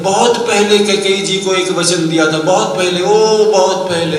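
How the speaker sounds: high, insistent "बहुत पहले", slowing on the final repeat; emphatic repetition. Acted. Stresses how long ago it was.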